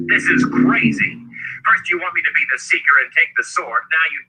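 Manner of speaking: high, indignant outburst; furious protest. A narrator's reading. Richard feeling cheated over the sword, furious protest. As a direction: protest hotly, pitch pushed well up. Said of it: "Richard was furious".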